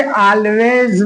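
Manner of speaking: always as "aal-vez" with a clear L; slow "aal-vez", L fully sounded; wrong pronunciation. Shown as a demonstration. Teacher mimics how people say it, clear-L mispronunciation. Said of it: "wrong है भैया".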